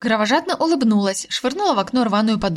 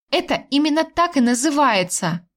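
higher, heated retort; indignant raised tone; 5 semitones higher than usual. Acted. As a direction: snap back with rising heat. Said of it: "на повышенных тонах сказала я".

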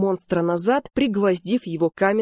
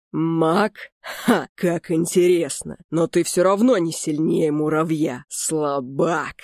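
mocking laugh; slower than usual. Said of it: "смеялся Лич".

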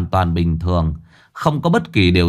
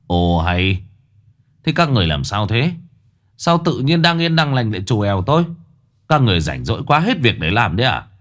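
grumbling. Acted. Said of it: "Ông Lục nhăn nhó".

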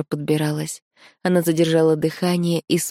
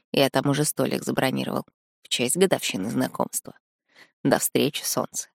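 put-on boyfriend voice; 3 semitones lower, 4 dB quieter than usual. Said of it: "просто голосовое".

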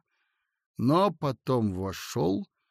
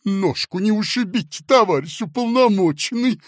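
tender; 8 semitones higher, 7 dB louder than usual. Acted. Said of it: "нежно сказал толстяк".

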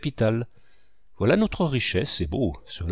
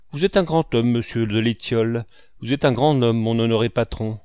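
mock grand praise; 3 dB louder than usual.

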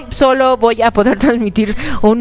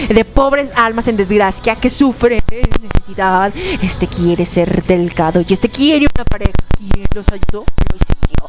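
Ursula villain voice; 2 semitones lower than usual. Retold or imitated. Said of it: "la clásica canción de Úrsula".

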